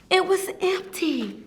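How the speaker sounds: soft dramatic letdown; disappointed. Acted. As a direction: let it fall away sadly.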